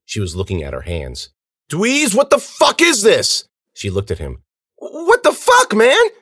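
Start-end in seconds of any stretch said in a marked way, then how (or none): 1.7-3.5 very high, loud, slow disbelief; panicked cry. A narrator's reading. Girl appeals to Dweez about her hands, panicked. 4.8-6.1 very high, loud cry; panicked disbelief. A narrator's reading. Girl appeals to the watching friend, panicked.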